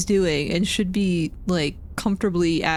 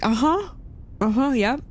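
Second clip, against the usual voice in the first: high-pitched placating little noises; mock-agreeable, pitched up; polite humoring; 6 semitones higher than usual. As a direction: nod along in a raised, put-on agreeable voice. Acted humoring of chatty repairman.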